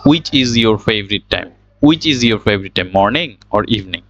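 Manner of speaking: "which" said "wich", h dropped; slow model question with plain w in "which"; correct pronunciation. Shown as a demonstration. Teacher models the question for practice, "which" as "wich". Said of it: "এটার correct প্রনাউন্সিয়েশনটা হচ্ছে".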